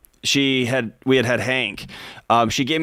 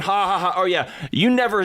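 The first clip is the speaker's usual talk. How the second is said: higher mock whine with fake laugh; mock whining wife; 7 semitones higher than usual. Mimicking a whining wife who says he's never home, higher mock whine. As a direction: ham up a nagging spouse, pitched up. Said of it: "she's not whining about it".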